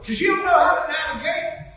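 high, loud retort; emphatic retold shout. Retold exchange during worship about navigating, shouted emphatically.

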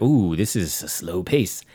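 drawn-out complaint. Retold or imitated. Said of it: "that I'm like".

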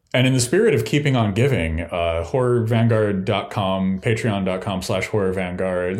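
upselling cashier. Acted. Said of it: "I sound like I'm the cashier at Sears".

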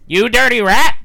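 high, loud gangster impression; hammed-up, high-pitched accusation; James Cagney. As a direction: shout it as a movie tough guy. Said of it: "You want James Cagney?".

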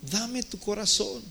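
God gently asking for your heart; God pleading. Acted. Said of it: "Entonces Dios dice". (Dios suplicando con ternura, alto y lento)

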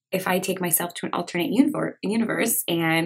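talking around a swollen tongue; stumbling over words with a swollen tongue. Real, not acted. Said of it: "sorry that I can't talk. I bit my tongue".

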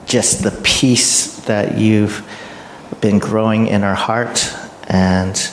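measured prayer with long pauses between phrases; spoken prayer. Real, not acted. Host praying aloud for the speaker, spoken prayer. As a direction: start lifted, then settle into unhurried, reverent prayer.

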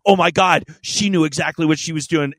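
playing back a friend's giddy news about a new lover; excited gushing. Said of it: "and so she was all excited".

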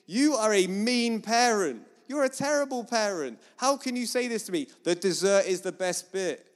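mock outrage of a child denied dessert; indignant child. Child protesting to a mean parent, indignant. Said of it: "And the child's thinking".

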